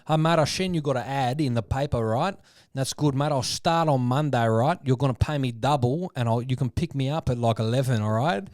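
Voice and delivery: lightly voiced cheeky phone prankster, pushy; prank caller Guido Hatzi's. Prank caller bossing a plumber on the phone, brash and cocky. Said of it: "The greatest phone call that he ever made was to a plumber".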